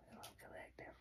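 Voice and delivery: unvoiced whispered greeting. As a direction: breathe the hello like a secret.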